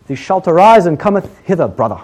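hammed-up churchy summons; high, loud start falling to a pious "brother"; mock-religious disciples. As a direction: intone it like a parody holy man. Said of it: "So you get very religious".

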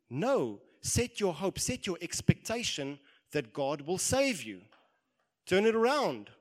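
loud, high preaching exhortation; rally yourself at full voice; rousing self-rebuke. Acted. Preacher voices David rousing himself.

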